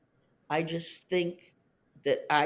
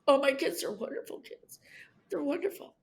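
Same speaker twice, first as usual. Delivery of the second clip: soft breathy whisper; almost no voice; 7 semitones higher, 4 dB quieter than usual. Real, not acted. Mother whispering about her wonderful kids.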